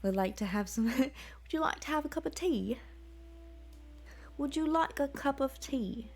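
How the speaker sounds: put-on a light quasi-British accent offering tea. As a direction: play a polite British host. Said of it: "I love your British accent".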